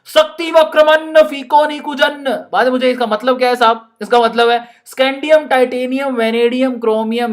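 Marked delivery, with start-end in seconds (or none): 0.0-2.3 grand Sanskrit recital. Shown as a demonstration. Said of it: "इतनी तगड़ी संस्कृत".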